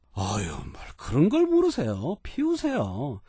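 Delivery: a lightly voiced humble guest waving off the question; slowed, yielding politeness; deferential guest. Guest telling the boss to go ahead and smoke, mildly humble. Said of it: "라는 정도의 느낌일 때는".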